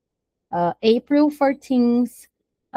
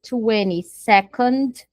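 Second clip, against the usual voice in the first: "twenty-second" drawn out slowly; careful, stretched teaching of "twenty-second"; slow model; much slower than usual. Shown as a demonstration. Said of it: "vigésimo segundo".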